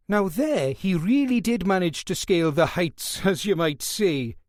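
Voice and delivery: pleased with his own wit; chuckling at his own joke. Acted. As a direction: Welsh guard laughing at his own pun to the nurse. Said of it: "Jones chuckled at his own wit".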